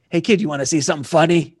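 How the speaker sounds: lightly voiced gangster buddy; a hint of a tough wiseguy offering a show; retelling, slip into Jimmy's wiseguy voice. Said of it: "that's my Jimmy voice".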